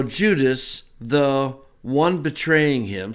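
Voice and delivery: slow, parsing each word of the Greek; slow word-by-word reading. Shown as a demonstration. Teacher to class, slowly parsing the verse. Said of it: "so there's your participle".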